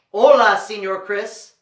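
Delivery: loud Spanish "Hola", then easing off; Spanish greeting. Shown as a demonstration. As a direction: lead the children in a Spanish hello. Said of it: "in Spanish".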